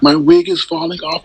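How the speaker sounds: high squealing mock voice; mocking impression. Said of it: "He was making fun of Sir King".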